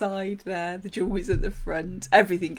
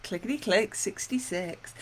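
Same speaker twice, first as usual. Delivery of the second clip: bingo caller; 5 dB quieter than usual. Retold or imitated. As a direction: announce the number to the hall. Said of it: "I've called bingo".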